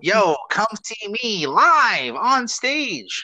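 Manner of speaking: slow, high drawn-out hustler pitch. Shown as a demonstration. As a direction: stretch it out like a street promoter. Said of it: "that's my hustler voice".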